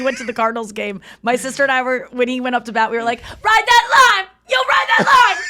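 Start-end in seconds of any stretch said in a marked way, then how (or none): 3.2-5.4 re-enacted heckling shout. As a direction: yell it at a batter from the stands. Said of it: "you can shout anything".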